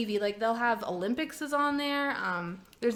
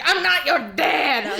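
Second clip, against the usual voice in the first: talk show guest; 4 semitones higher, 9 dB louder, slower than usual. Retold or imitated. Acting the guy on the show.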